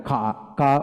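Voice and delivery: কা with a long "aa" and no final r; British silent r. Shown as a demonstration. Teacher explains the British form of car, silent r. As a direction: drop the r, leaving an open কা. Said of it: "আর উচ্চারণ হবে না".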